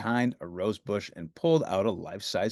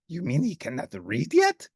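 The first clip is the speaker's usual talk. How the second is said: Grover voice; 4 semitones higher than usual. Acted. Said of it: "asked Grover".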